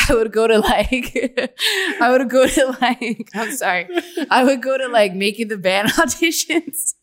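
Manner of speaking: talking through real laughter; giggling. Real, not acted. Guest confessing to host why she failed class, giggling. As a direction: giggle helplessly as you confess.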